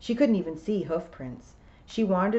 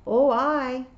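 louder, higher Scottish piper; William the piper, Scots; 8 semitones higher, 7 dB louder than usual. A narrator's reading. William answering Tiffany's call, in Scots voice.

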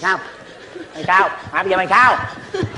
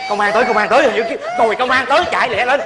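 hối hả kêu bạn bỏ chạy; la lên báo động; hô hoán báo động; 3 semitones higher than usual. Acted. Hô báo công an tới. (hô hoán, giục chạy)

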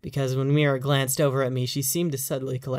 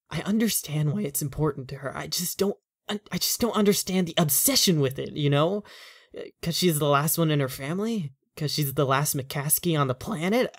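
lightly voiced husband, getting worked up; a tired man whose worry turns to exasperation; frustrated husband; 4 semitones higher, 4 dB louder than usual. The husband vents about wife's family.

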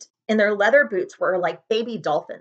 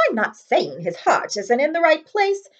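grudging; 8 semitones higher, 4 dB louder than usual. Acted. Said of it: "said Professor McGonagall grudgingly".

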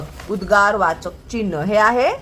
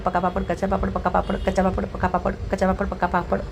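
rapid tongue-twister patter, softer; rattled off fast; 3 semitones lower, 5 dB quieter than usual. Shown as a demonstration. Teacher racing through the papad tongue twister for the child. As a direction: race through it as fast as you can. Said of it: "वेग वाढवत म्हण".

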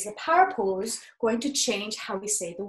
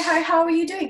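as mom; 7 semitones higher, 6 dB louder, faster than usual. Shown as a demonstration. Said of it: "Okay, so I'm your mom".

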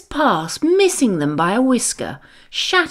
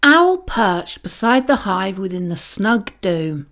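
plain reading voice

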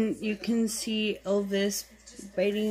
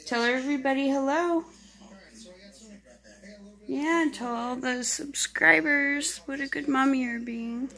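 pet talk; 5 semitones higher than usual. Real, not acted. Talking to mother cat.

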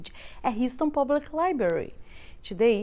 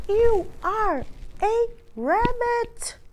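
exasperated insistence; 10 semitones higher, slower than usual. Acted.

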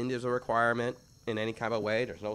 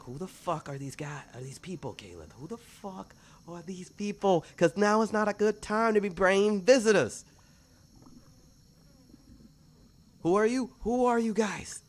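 high, louder frantic goblin voice; agitated goblin; 9 semitones higher, 7 dB louder than usual. Acted. Goblin demanding who the strangers are. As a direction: demand answers in a squeaky panic.

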